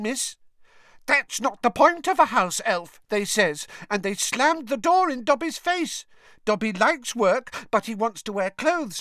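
high, earnest elf squeak; squeaky elf voice. A narrator's reading. Dobby voiced as house elf.

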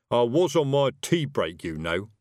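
mildly reproachful grumble; aggrieved wizard whose tea was interrupted. Acted. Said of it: "adding reproachfully".

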